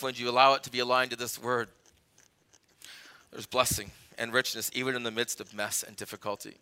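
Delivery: low, softened sermon delivery; hushed, measured pastoral reflection; reflective preaching. Real, not acted. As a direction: bring it down low and let each phrase settle.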